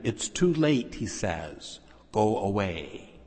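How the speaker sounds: a hint of a cold, slow doorkeeper turning him away; lightly voiced friar refusing entry, slow; gruff doorkeeper. Friar at the door turns Francis away, lightly voiced and slow.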